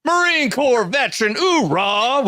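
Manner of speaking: high-pitched marine hype call. Acted. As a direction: cheer it like a drill marine. Hyping the Marine veteran guest.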